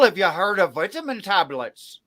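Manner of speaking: put-on light Irish accent; a touch of Irish accent. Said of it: "that is clearly an Irish accent".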